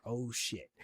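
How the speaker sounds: quiet, drawn-out uh-oh; Garibaldi's dread. Retold or imitated. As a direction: say it under your breath, sinking. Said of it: "Garibaldi is like".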